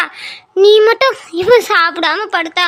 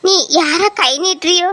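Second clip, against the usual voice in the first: begging her brother through tears; crying plea. Acted. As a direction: sister crying as she begs her brother to trust her. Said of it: "ஏன்டா அழுற?".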